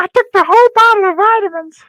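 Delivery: shrill, very high, very loud put-on voice. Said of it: "he's doing it the whole time in the Elmo voice".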